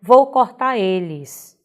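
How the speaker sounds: VOU CORTAR ELES with the R dropped, as cortá eles; colloquial pronunciation. Shown as a demonstration. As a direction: slowly model the colloquial cortar without its final R. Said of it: "numa pronúncia coloquial".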